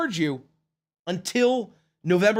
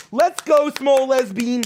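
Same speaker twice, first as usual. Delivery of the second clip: louder, higher hype; cheering; 5 semitones higher, 6 dB louder, slower than usual. Real, not acted. Streamer hyping a backer, loud cheer. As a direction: cheer the fan on.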